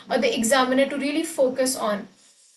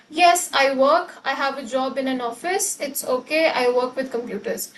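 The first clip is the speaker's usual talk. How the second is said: band five student answer. Shown as a demonstration. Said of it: "band five student would say".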